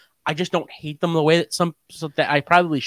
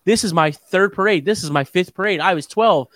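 lightly voiced bragging parade kid, higher pitched; mocking a bragging sign-holder; 4 semitones higher than usual. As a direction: reel off the boasts in a higher, mocking voice. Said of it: "seeing a little asshole that".

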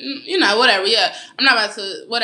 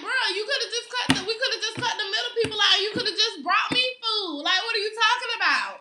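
laughing retold quip; 10 semitones higher than usual. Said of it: "I'm like".

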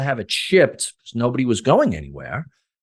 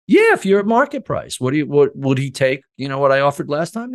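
eager reply; 3 semitones higher than usual. Retold or imitated. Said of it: "phone call".

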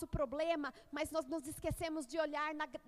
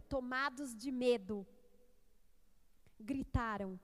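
solemn, measured public Bible reading; scripture reading. Acted. Preacher reads the gospel to the congregation, solemn scripture reading. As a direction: read it out with weighty emphasis on key words.

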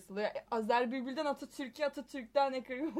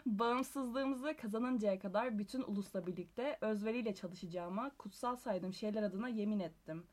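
formal speech; 2 semitones lower than usual. Shown as a demonstration. Reads Atatürk quote to close.

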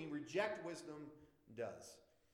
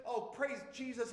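joyful church lady praising; 5 semitones higher than usual. Retold or imitated. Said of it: "she will just say it out loud".

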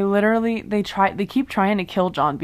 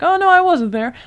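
mock innocent Sarah; 10 semitones higher, 7 dB louder than usual. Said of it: "Sarah's like".

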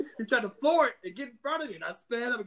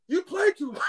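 high, louder whiny protest; backing down; 10 semitones higher, 6 dB louder than usual. Retold or imitated. Short driver backing off after seeing his size, high whiny protest. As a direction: say it like a shrinking tough guy. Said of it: "And he's like".

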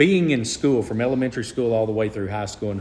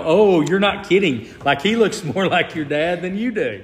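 higher, louder imitation of astonished onlookers; mock amazement; 6 semitones higher, 4 dB louder than usual. People seeing the look-alike brother, retold amazement. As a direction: act out their dawning surprise.

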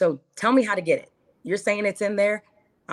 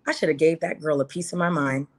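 higher, regretful rant to herself; frustrated teen self; 4 semitones higher than usual. Retold or imitated. Woman voicing her teen self's regret: higher, exasperated rant. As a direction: replay your high-school self, fed up and kicking yourself. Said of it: "you're like".

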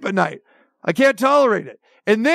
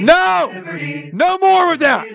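exasperated protest; 6 semitones higher, much slower than usual. Real, not acted. Host yelling over a repeating Liberty jingle, exasperated. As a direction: shout it down, fed up.

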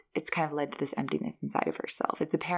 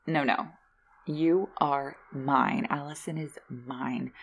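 possessive Hetty; slower than usual. Retold or imitated. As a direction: stretch each word out like an obsessed stalker. Hetty voiced turning possessive.

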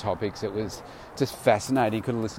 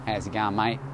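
put-on Aussie accent. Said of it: "laid back kind of accent".

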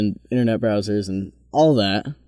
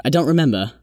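lightly put-on British accent; British-accented speaker; 2 semitones higher than usual. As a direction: imitate a Brit, softening the final R. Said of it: "say it in a more British accent".

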